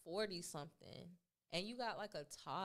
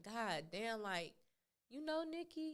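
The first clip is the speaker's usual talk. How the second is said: incredulous mock quote; 3 semitones higher than usual. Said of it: "And I was like".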